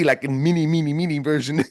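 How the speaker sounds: chuckling through the words; laughing at himself. Real, not acted. Laughing at his own comparison.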